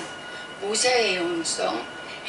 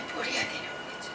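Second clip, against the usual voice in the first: whisper; 12 dB quieter than usual. Real, not acted.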